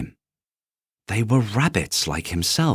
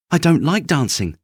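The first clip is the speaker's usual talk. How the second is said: high, louder pretended indifference; little rabbit fibbing; 8 semitones higher, 4 dB louder than usual. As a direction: hide the longing. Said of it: "he said".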